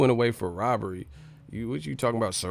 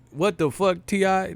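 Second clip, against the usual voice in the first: high disbelief; 8 semitones higher than usual. Real, not acted.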